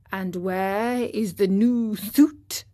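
weary father asking gently; father's question. Acted. Father asks Pinocchio about the suit, slowly. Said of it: "his father asked him".

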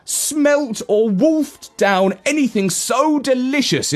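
laughing. Acted. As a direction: laugh through the delight. Dog gushing about hot dogs.

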